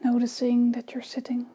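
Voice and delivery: unhurried meditation guidance with long pauses; guided meditation. Real, not acted. Teacher leading listeners into breathing and body awareness, calm meditation guidance. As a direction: ease them gently into the practice, phrase by phrase.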